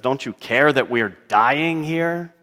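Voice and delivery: understated angry reproach; mild anger. Acted. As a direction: reproach him with a touch of anger. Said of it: "anger when they say".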